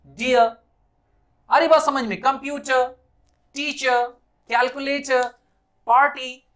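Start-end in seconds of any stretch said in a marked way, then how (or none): 0.1-0.5 डियर as "di-yuh", no r; final vowel stretched. Shown as a demonstration. Teacher demonstrating the stretch, डियर without r. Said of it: "इस अ को ऐसा खींचिए". 2.2-6.4 कंप्यूटर, टीचर, कैलकुलेटर ending in "uh", पार्टी as "paa-ti"; r left silent. Shown as a demonstration. Teacher modelling examples, कंप्यूटर, टीचर, कैलकुलेटर, पार्टी without r. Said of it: "आर का sound है उसे थोड़ा कम बोलें".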